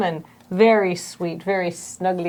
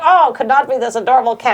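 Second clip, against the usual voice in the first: put-on Russian accent; faster than usual. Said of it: "And they're like".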